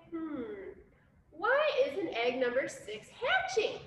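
musing, puzzled question; wondering. Acted. Mama duck puzzling over her unhatched egg, wondering aloud. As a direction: think aloud, stretching the puzzlement. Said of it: "She's wondering".

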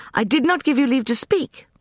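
high, loud cutting rebuke; piercing rebuke. A narrator's reading. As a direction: slice him with the words. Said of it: "the light voice pierced like a sword blade".

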